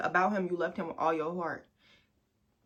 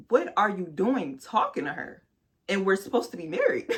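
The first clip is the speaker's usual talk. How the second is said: louder, laughing through the outrage; laughing indignation; 4 semitones higher, 5 dB louder than usual. Retold or imitated. Retelling confronting her boyfriend, laughing indignation. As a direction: scold him while cracking up.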